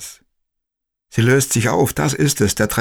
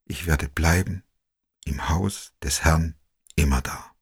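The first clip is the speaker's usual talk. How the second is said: soft, fading, triumphant whisper; last psalm words, barely breathed; faint croaking whisper; 4 semitones lower, 6 dB quieter than usual. A narrator's reading. Dying woman finishing the psalm, faint croaking whisper. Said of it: "Ein leises, krächzendes, verschleimtes Siegesgeflüster".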